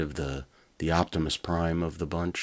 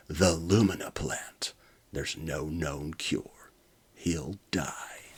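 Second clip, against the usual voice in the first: grave; slower than usual. Acted. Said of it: "Doctor Fury gasped".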